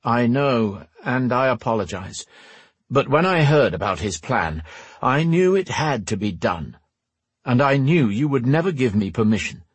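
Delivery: lightly voiced rogue, earnest and apologetic. Voices Bane in the story.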